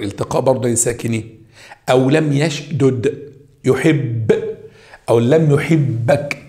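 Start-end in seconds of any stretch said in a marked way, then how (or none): 1.9-4.3 slow model reading. Shown as a demonstration. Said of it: "بنسميه كده عندك سكون مقدر". 5.1-6.5 slow model reading. Shown as a demonstration. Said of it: "كده شد وفتحة على الباء".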